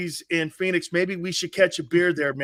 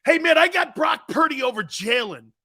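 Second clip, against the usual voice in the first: loud, mock-serious boast that breaks down; fake straight-faced claim; 4 semitones higher, 4 dB louder than usual. Shown as a demonstration. Host shows Tone he cannot fake picking Purdy, mock-serious. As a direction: try to say it with a straight face. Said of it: "Tone, watch this".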